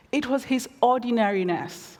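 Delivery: a touch defensive, stress on "It". Retold or imitated. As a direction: justify yourself to your siblings. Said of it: "I answered defensively".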